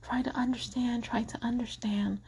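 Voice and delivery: whispered, gentle self-calming; soft whisper. Pretend. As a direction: hush yourself, try to understand. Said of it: "the Christian in me was like".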